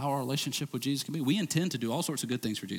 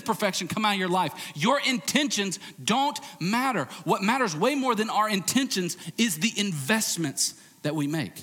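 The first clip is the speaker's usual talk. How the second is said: raised, emphatic preacher voice; forceful preaching; 7 semitones higher, 4 dB louder than usual. Real, not acted. Preacher contrasting intentions with investments, forceful preaching. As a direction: drive the point home, high and punched.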